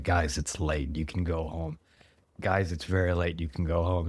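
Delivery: low, soft mild plea; retold pleading. Game master to players late at night, mild pleading. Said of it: "I keep pleading with you".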